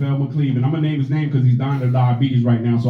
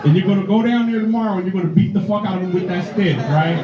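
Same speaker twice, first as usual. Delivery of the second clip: black mom; 4 semitones higher than usual. Retold or imitated. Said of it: "Black moms would be like".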